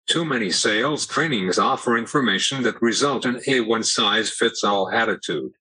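synthetic text-to-speech voice; computer voice. Real, not acted. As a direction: speak like an AAC speech device. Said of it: "using a computer voice".

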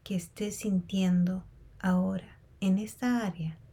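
unhurried meditation guide with long pauses; guided meditation. Real, not acted. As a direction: guide them calmly through a body scan, leaving space between phrases. Leads a body scan meditation.

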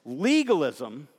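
"Legalism" slowly, drawn out for note-takers. Shown as a demonstration. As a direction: stretch out "Legalism" so they can write it down. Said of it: "I'm gonna say it slowly".

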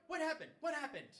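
high, loud mock panic; frantic retold shouting; boyfriend's panicked yelling. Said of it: "he starts going".

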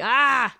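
mock cry of dismay. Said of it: "I'm just like".

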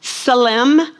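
tselem said as tseh-lem, stress on the first syllable; Hebrew word tselem. Shown as a demonstration. Preacher teaching his congregation the Hebrew word, carefully sounded out. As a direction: sound out the Hebrew tselem with a light rise at the end. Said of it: "The Hebrew word".

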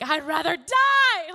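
exaggerated sulking outburst; mock dramatic wail. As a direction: play Jonah as an overdramatic whiner. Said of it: "And he's like".

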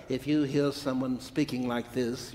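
demonstrating a Texas accent. Shown as a demonstration. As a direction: put on a light Texan accent. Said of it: "you're from Texas, I recognize that accent".

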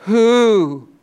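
a booming angel's call; loud proclaiming. Acted. Preacher voicing the mighty angel, loud proclamation. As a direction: proclaim it out loud to all heaven. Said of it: "proclaiming with a loud voice".

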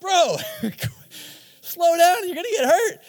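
put-on high, loud alarmed shout at the baby; alarmed dad shout. Dad to baby reaching for knives, high loud shout. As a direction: yell it like a dad seeing knives. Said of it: "And I'm like".

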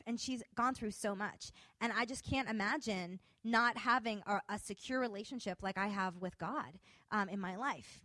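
ordinary talk, nothing marked

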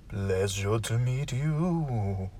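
a stately low butler, taking his time; deep butler voice. Acted. Butler greets the guest.

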